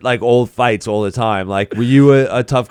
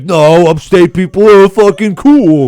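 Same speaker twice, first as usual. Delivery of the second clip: slow, loud, higher mock-indignant voice; louder and higher, dragging out the words; mock defensive upstate guy; 7 semitones higher, 7 dB louder than usual. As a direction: ham up a proud upstate bro. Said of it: "They're like".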